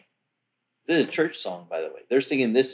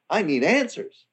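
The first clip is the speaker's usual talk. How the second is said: urgent plea; 6 semitones higher than usual. Retold or imitated. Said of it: "I'm like".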